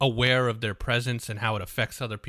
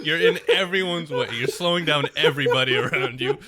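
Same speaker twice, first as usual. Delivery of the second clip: mock scolding rant; 2 semitones higher, 4 dB louder than usual. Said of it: "It's like".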